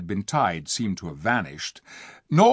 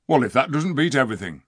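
exclaiming; faster than usual. Acted. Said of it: "exclaimed Diggle".

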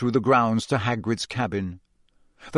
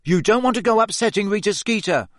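nervously; 9 semitones higher, faster than usual. A narrator's reading. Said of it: "said Ron nervously".

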